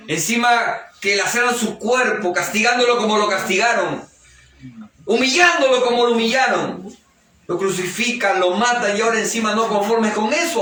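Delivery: decry the cruelty with rising pitch; indignant preaching. Real, not acted. Preacher decries cruelty to Jesus.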